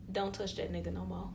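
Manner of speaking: low and hushed, voicing his warning; retold quiet warning. Boyfriend warning her off his friend, retold quietly. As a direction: drop to a soft, low voice for his quoted order.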